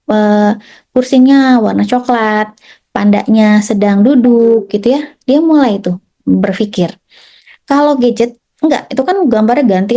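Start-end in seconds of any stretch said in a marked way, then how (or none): 0.1-4.7 slow observing. Shown as a demonstration. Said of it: "dengan perlahan".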